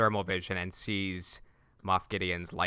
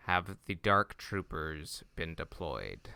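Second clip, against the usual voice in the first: Moff Gideon; 4 semitones lower, 6 dB quieter, slower than usual. Retold or imitated. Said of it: "Moff Gideon asks".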